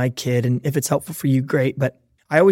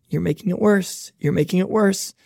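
higher sing-out warning as the thumb goes up; escalating warning; 4 semitones higher than usual. Acted. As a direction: climb higher, a playful parental warning. Acts out escalating warning to kids.

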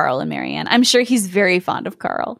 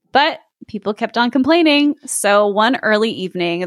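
story narration. A narrator's reading. S0 reads fairy tale aloud.

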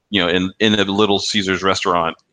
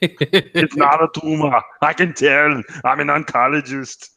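slow, higher, hammed-up doctor voice; mock commercial line; 6 semitones higher, slower than usual. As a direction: mimare il dottore in tono esagerato.

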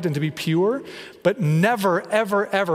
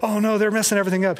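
higher, hurried mock fretting; rushed, higher-pitched pretend alarm; mock panic; 5 semitones higher, much faster than usual. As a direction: act out a flustered scramble. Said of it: "has to scramble and defend it".

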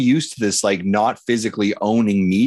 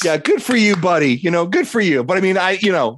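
mock gloating; 6 semitones higher than usual.

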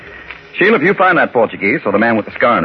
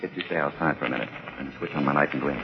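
hushed; 8 semitones lower, 14 dB quieter, faster than usual. Acted. Sneaking aboard the barge.

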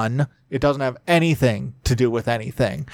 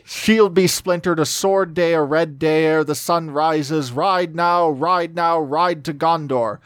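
ringing, higher rallying call; loud battle cry; 4 semitones higher than usual. Acted. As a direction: rouse the host to ride. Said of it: "he cried in a loud voice".

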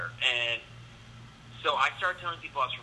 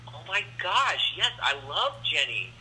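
drawn-out, higher-pitched gushing; feigned delight; 5 semitones higher than usual. Retold or imitated. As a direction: gush as if you adore her. Feigning delight at a named acquaintance.

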